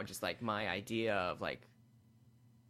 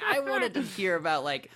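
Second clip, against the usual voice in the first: mock heckler voice; 4 semitones higher, 4 dB louder than usual. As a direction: play a grumpy club-goer. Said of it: "sometimes people are like".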